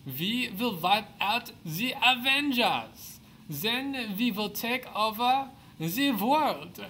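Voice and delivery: slow, high, loud villain gloating; mad scientist. Acted. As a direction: savor each evil plan, slowly. Villain speaks at hidden base.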